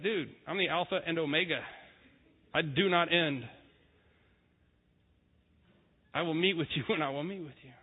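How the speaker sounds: laid-back God. Retold or imitated. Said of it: "God's like".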